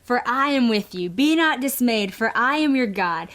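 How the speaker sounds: earnest, measured verse reading; scripture reading. Acted. Mom's verse read over an anxious child, earnest. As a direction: read it over her like a blessing.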